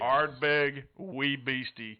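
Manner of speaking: slow, drawn-out pirate growl. Acted. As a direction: stretch the name like a pirate. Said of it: "like a pirate".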